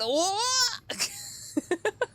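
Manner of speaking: a high wailing laugh; real high cackle. Real, not acted. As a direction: let the laugh go high and long. Laughs at game.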